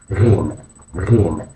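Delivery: GHIN begun with a gargled French R; French-R sound. Shown as a demonstration. Teacher showing learners the letter, GHIN like French R. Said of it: "similar to the French R".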